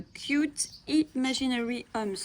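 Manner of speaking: book title read with a French speaker's English accent. Shown as a demonstration. Naming an English coloring book title to viewers, in an English accent. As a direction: say the English title with her self-conscious English accent. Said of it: "mon accent anglais".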